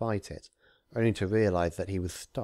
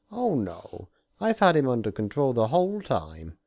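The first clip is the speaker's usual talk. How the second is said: higher, louder breezy reassurance; reassuring Discord; 5 semitones higher, 6 dB louder than usual. Acted. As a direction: cover up the mischief. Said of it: "Discord replied".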